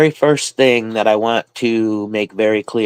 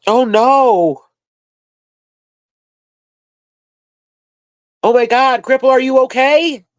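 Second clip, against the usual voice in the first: alarmed gasp; 13 semitones higher, 4 dB louder than usual. Real, not acted. Sudden alarm over Cripple.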